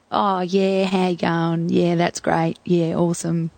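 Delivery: lightly imitated laid-back Aussie surfer; Australian surfer dude. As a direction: do a mild Aussie surfie impression. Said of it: "quintessential Australian surfy".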